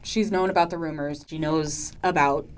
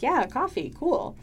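mock casual agreement; 10 semitones higher than usual. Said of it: "And Vale's like".

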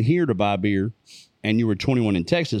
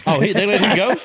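surprised; 8 semitones higher, 6 dB louder than usual. Real, not acted. Reacting to buddy being released.

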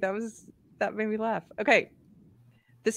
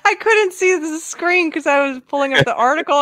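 normal talking voice

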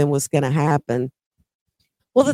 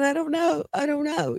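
retold crying; 8 semitones higher, 8 dB quieter than usual. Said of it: "he's just crying".

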